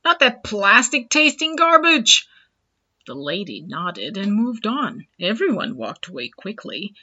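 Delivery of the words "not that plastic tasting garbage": high, loud market hawker; annoying high pitch. Acted. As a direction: shout it up high to sell. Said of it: "his voice reaching an annoying pitch".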